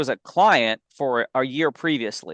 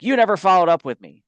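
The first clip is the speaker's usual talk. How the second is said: mock upset customer; 5 semitones higher, 4 dB louder, faster than usual. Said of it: "she's all upset".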